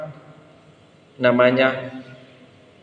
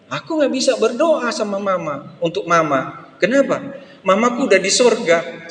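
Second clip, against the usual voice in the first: put-on child's voice; 5 semitones higher than usual. Child voiced in sermon story.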